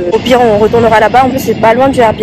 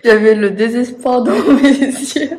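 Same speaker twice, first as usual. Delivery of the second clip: laughing. Real, not acted. Laughing while telling lockout.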